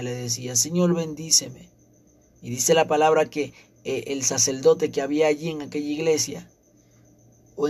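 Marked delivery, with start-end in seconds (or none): 0.6-1.7 clamor citado, lento; súplica repetida. Retold or imitated. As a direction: repetir el ruego despacio, imitando a quien suplica. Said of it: "a clamarle a Dios, a pedirle". (ruego imitado, pausado)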